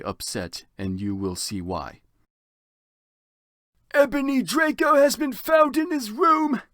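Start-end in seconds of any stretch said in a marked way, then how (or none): 3.9-6.6 slow wizard proclamation. Acted. Dumbledore's dramatic announcement.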